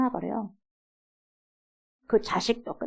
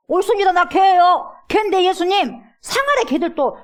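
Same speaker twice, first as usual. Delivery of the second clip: higher, louder earnest cry; fervent plea; 8 semitones higher, 5 dB louder than usual. Shown as a demonstration. Mother earnestly confessing to Jesus, fervent. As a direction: cry it out with fervour. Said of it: "이거예요".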